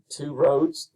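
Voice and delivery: "two roads" slowly, weight on ROADS; iambic stress. Shown as a demonstration. Teacher showing the first iamb, stress on ROADS. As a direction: lean on "roads" after a lighter "two". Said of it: "the first iamb".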